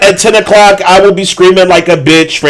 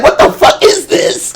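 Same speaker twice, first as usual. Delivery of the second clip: laughing quote; 11 semitones higher, 3 dB quieter than usual. Retold or imitated.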